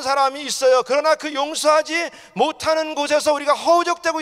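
high-pitched, insistent sermon delivery; forceful preaching. Real, not acted. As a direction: drive each warning home to the congregation. (힘주어 외치는 설교조)

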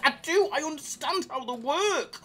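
drawn-out high, strained shouting; over-the-top, very high hype shout; vein-popping yell. Pretend. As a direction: roar the boast until a vein pops. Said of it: "The vein's popping out. Calm it".

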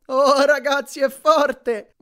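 loud, high whoop of pleasure; delighted shout. A narrator's reading. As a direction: shout it out, thrilled. Grover delighted on massage bed.

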